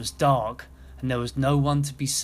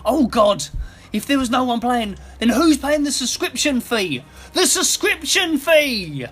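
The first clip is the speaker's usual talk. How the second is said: very high, loud panicked outburst; frantic; 9 semitones higher, 6 dB louder than usual. A narrator's reading. Scrooge realising nobody pays the fee, frantic. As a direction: spiral into panic, drawing out the final words. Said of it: "started acting frantic".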